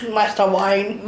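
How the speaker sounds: slow mock Cockney butler; Alfred. Joining in mocking Alfred, slow Cockney butler. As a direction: echo a butler in lightly faked Cockney. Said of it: "And the Cockney accent".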